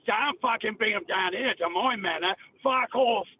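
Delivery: tough Cockney through the teeth; Cockney accent. Shown as a demonstration. Cockney hard man guarding his manor, Cockney accent. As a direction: warn them off your patch in Cockney. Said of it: "That's the Cockney".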